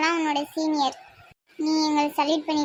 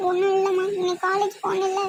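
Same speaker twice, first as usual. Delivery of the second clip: mildly tearful explanation; acted crying. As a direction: begin telling mother, close to tears. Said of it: "Sathya, ஏன் அழுகுற?". (லேசான அழுகைக் குரலில்)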